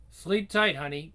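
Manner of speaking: fond parental send-off; caring goodnight. Acted. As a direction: wish goodnight sweetly. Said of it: "She's definitely gonna sleep tight".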